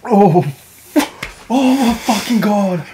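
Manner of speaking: high, loud cry of pain. Real, not acted. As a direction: cry out from the burning heat. Mouth on fire.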